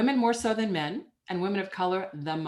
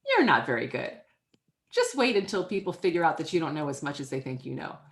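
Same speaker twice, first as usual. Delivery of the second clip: inner critic voice; 4 semitones lower than usual. Retold or imitated. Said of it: "that little voice that comes in and tells you".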